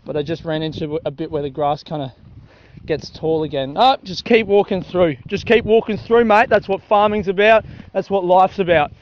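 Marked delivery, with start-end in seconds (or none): 3.8-8.9 lightly voiced country Australian; mock country bloke. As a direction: play a tough farmer geeing himself up. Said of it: "country people don't actually talk like that".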